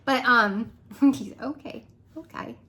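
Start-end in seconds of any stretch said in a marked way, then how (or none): 1.4-2.6 softer, higher mock Australian okay; a light take on Siri's Australian accent. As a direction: imitate an Australian Siri saying okay. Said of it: "How he says it".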